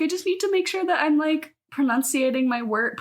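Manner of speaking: mock precise customer service voice; prim ad voice. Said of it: "What is that voice?".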